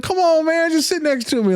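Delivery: very high, drawn-up coaxing voice; mock pleading. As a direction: coax a reluctant friend in a squeaky-high pitch. Retold coaxing of reluctant client.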